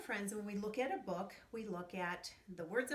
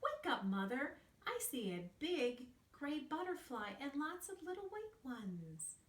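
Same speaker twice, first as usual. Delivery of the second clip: higher, eager call; excited cub; 6 semitones higher than usual. Acted. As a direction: wake mum up eagerly. Alfie calls mother.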